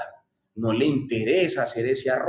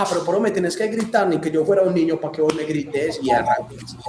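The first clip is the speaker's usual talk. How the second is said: husband snapping back; 2 semitones higher than usual. Retold or imitated. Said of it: "el marido le empieza".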